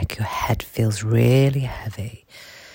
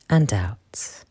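right in your ear. Acted. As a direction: breathe the words out in a whisper. Whispered breathing cue.

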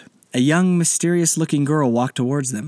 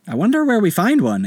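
put-on child voice; 10 semitones higher, 3 dB louder than usual. Anderson child voice.

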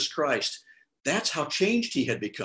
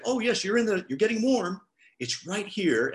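higher-pitched, encouraging helper voice; gentler, helpful reply; 7 semitones higher than usual. Acted. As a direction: guide them kindly, pitched up at first. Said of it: "Well, I wouldn't say that".

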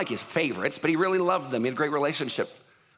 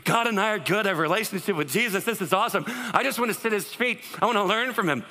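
mock exhilaration; 4 semitones higher than usual. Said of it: "exhilaration going".

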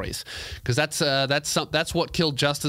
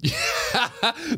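short high-pitched laugh; high giggle. Real, not acted. Laughing at own joke.

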